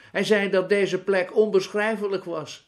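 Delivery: put-on high, loud amused old woman; hilarity in the voice, without actual laughter; mock roaring mirth. A narrator's reading. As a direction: crow it to your friends as a great joke. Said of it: "schaterde het kreng".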